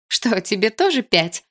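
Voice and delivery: slow, teasing question with a laugh in it. A narrator's reading. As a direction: tease him, half laughing. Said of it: "со смехом спросила я".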